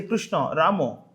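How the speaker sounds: "Krishna" ending in a round O, "Krishno"; Bengali and Oriya pronunciation. Shown as a demonstration. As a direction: round the last vowels, "Krishna" as Krishno, "Ramo". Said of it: "Even the Bengalis and Oriya devotee".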